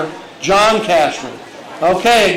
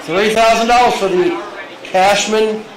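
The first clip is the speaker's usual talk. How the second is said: auctioneer. Acted. Auctioneer calling for bids.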